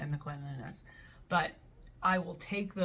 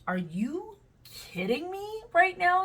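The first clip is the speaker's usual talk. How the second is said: much higher, slowed, incredulous; mock outrage; 11 semitones higher, 5 dB louder, slower than usual. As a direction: demand it in disbelief. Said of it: "I would be like".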